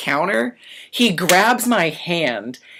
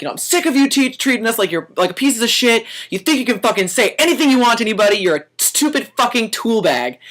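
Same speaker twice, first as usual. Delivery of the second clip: higher, heated rant; retold freaking out; 6 semitones higher than usual. Waiter ranting at the assistant manager, higher and heated. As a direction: go off on him fast. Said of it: "I'm kirking out on this guy".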